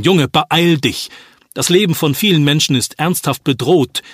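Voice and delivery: an alarmed father giving urgent commands; urgent orders. Acted. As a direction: press the boy to hurry, voice lifted. Father urges son to raise alarm.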